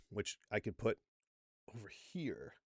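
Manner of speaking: barely-there whisper; whispered pointer, very soft; whispered aside. Shown as a demonstration. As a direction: drop to a hushed, voiceless whisper. Stage aside pointing to video.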